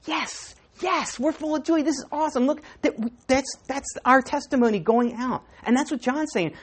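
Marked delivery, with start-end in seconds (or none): 0.1-5.4 mock excitement. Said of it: "we're like".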